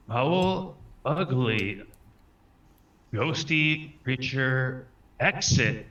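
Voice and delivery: high, drawn-out incantation; spell command. Acted. Player casting a spell at a ghost, commanding. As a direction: call out each word slowly as a command.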